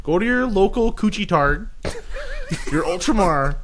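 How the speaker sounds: put-on mild Canadian hockey bro accent; a loose Canadian hockey bro sign-off. Canadian hockey bro accent, signing off the podcast to listeners. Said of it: "you do the sign off in that voice".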